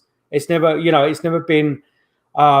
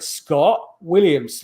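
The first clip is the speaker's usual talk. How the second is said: slow spirit-box voice; much slower than usual. Retold or imitated. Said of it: "like that".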